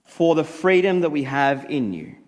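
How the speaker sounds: low-pitched, measured public prayer. Real, not acted.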